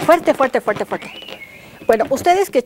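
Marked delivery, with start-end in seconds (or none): 0.1-1.1 loud call. Shown as a demonstration. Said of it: "¿quiénes de ustedes chiflan muy fuerte?".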